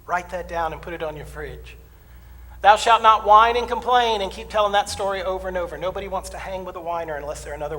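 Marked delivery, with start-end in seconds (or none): 2.6-4.2 slow, loud, lofty biblical voice; booming commandment. Acted. Preacher proclaiming a mock commandment, slow and booming. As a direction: intone it like a stone tablet.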